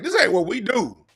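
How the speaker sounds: high, excited firefighter voice; firefighters protesting. Retold or imitated. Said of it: "And the fire department, like".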